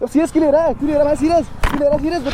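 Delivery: losing racer shouting at his friend for taking it seriously, angry. Acted. Heated shouting. Heated quarrel after race.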